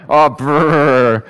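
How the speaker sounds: trilled brr, mimicking the guard; acted-out shiver noise; imitated shivering brr. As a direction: mime being cold with a rolled brr. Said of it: "and she's like".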